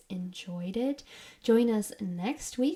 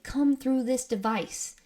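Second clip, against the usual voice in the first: slow, firm command, slightly raised; forceful, not yelling; 4 semitones higher than usual. Retold or imitated. Aaron commanding the spirit to speak, forceful and drawn out. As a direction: imitate a forceful demand without yelling. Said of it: "forcefully, Aaron is kind of not yelling".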